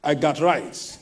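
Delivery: I got rights with a South African lilt; light South African imitation; South African way of saying it. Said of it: "That's how they say it in South Africa".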